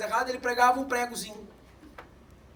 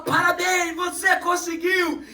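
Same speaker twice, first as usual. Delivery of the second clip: louder joyful congratulations, slowed; celebrating grandfather; 5 semitones higher, 4 dB louder, slower than usual. Retold or imitated. Grandfather celebrating the last nail pulled, loud. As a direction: cheer him on like a proud grandpa. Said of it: "começou a celebrar".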